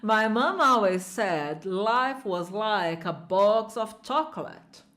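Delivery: slow, careful repeat of the film line. Shown as a demonstration. Teacher repeating the clip line slowly for students. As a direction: spell out each word slowly. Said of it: "Presta atenção".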